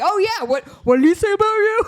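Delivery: high, loud goading taunt; egging him on, all hyped up. Retold or imitated. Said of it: "you can hear him egging him on".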